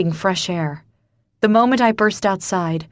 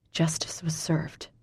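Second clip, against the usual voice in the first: unvoiced, bitter whisper; 8 dB quieter than usual. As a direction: breathe it out softly. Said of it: "I whisper".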